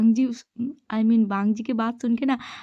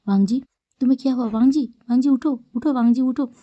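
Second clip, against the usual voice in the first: urgent waking. Acted. Brother begging unconscious Wangji to wake, fast and urgent. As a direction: rush the words, shake him awake with your voice.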